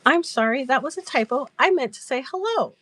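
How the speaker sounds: high, sheepish explanation; retold apology. Giggler finally explains the typo to the host, apologetically.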